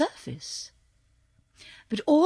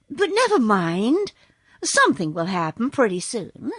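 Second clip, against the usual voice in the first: cheerful. Acted. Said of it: "answered Dorothy cheerfully".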